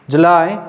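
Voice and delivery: जुलाई as "July", stressed; English July. Shown as a demonstration. Teacher to class: the English जुलाई repeated firmly. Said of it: "English में जब बोलेंगे तो कैसे बोलेंगे".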